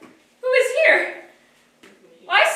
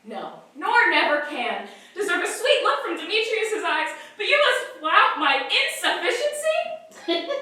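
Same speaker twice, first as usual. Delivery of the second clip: bitter laugh. Acted.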